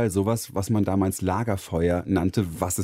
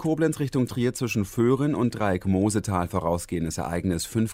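traffic report. Acted. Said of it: "Macht er aber ganz souverän".

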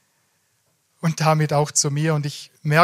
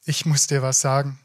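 retold stammer. Groom struggles to confess to his fiancée, stammering. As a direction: break off after the first word, then push on. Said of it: "und stammle nur".

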